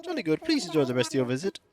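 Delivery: courteous museum host. Pretend. Museum host sees visitor off.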